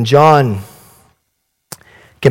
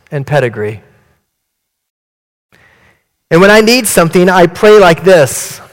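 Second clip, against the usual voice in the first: smug churchgoer; 2 semitones higher than usual. Acted. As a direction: boast like a comfortable suburban Christian. Tulsa Christian speaks in poem.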